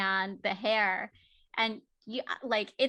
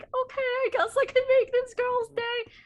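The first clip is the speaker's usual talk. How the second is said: resigned; 6 dB louder than usual. Retold or imitated. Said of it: "I'm like".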